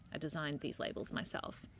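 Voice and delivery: whispering. Acted. Proud aside after designed labels.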